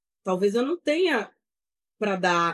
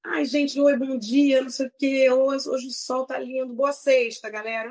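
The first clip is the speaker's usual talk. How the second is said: mock influencer greeting; 3 semitones higher than usual. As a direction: parody a chirpy morning vlogger. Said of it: "eu não consigo chegar e".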